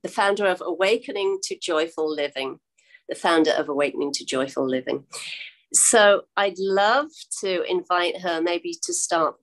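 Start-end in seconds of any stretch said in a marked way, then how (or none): 3.1-5.0 fast, lower confirming repeat of the title; quick repeat. Real, not acted. Host to viewers, quickly repeating the corrected title. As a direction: rattle it off once more to lock it in. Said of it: "no, let me get this right".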